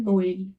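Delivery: "नोएल" as no-el; two clear vowels in "नोएल"; vowels sounded separately. Shown as a demonstration. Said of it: "इसको ए करेंगे". ("नोएल" दोनों स्वर अलग)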